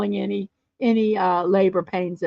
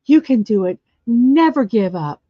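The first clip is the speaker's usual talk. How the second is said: fitness coach cheer; 4 dB louder than usual. Retold or imitated. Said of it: "he starts quoting Richard Simmons".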